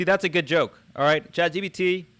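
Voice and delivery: excited praise. Real, not acted. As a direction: praise it with real delight. Praising the AI's joke.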